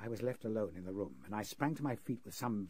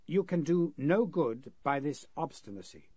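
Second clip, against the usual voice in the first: louder, higher, forceful demand; a menacing, insistent captor; stern pressure; 5 semitones higher, 7 dB louder than usual. Acted. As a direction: lean on him hard to give in. Captor pressing a bound prisoner.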